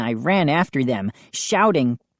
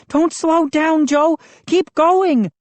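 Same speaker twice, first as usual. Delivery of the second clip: high urgent shout of encouragement; 12 semitones higher, 4 dB louder than usual. A narrator's reading. Moose urging Joe on while they flee, urgent shout. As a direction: push your friend to keep running.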